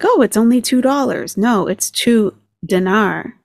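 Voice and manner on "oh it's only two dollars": lightly mocking higher-pitched quote; mimicking her. Reactor quoting the woman on prices, lightly mocking imitation. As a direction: imitate her breezy claim, pitch raised. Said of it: "'cause she's like".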